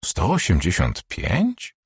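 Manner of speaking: slow, drawn-out disbelief with a rising end; slow down and question the number; disbelieving. Acted. Doctor doubts the patient's stated height, slow disbelief. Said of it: "spytała z niedowierzaniem".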